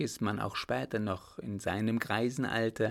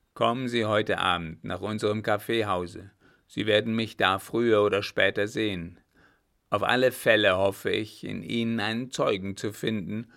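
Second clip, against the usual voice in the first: captain's voice, firmly louder; a louder grim captain demanding a straight answer; loud stern captain; 5 dB louder than usual. Acted. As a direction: press him hard, like a gruff officer. Captain plans his alibi.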